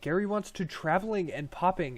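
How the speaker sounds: eager little goblin greeting a stranger; excited goblin Gary. Acted.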